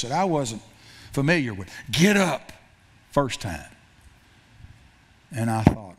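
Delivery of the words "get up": stern military command. Retold or imitated. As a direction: bark it like a drill sergeant. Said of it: "mean, military, commanding voice".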